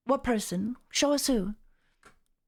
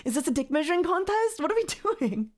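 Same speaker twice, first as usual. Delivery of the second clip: incredulous; 6 semitones higher than usual. Real, not acted. Incredulous outburst.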